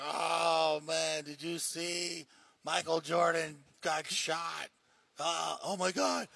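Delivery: mock drunk breathlessly sharing fake news; drunk at the bar. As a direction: slur the gossip like a half-cut barfly. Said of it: "if some drunk is at the bar".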